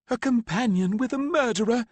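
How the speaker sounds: high, loud sneer; mother sneering at the man holding her back. A narrator's reading. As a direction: sneer with contempt. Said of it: "she sneered".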